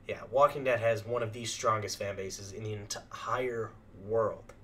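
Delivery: hoarse, worn-out voice; losing voice. Real, not acted. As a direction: voice giving out. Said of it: "I'm starting to lose my voice".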